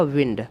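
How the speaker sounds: "विंड" said with a short i, like vind; pronounce wind. Shown as a demonstration. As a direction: say "विंड" as the noun for air, short vowel. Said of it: "इसका pronunciation होगा वो विंड होगा". ("विंड" को छोटी इ के साथ बोलें)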